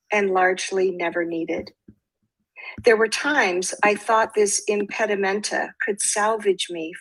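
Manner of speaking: measured poetry reading with pauses between lines; poem reading. Acted. Poet reads her own poem to listeners, measured recital. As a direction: read it as verse, giving each phrase room.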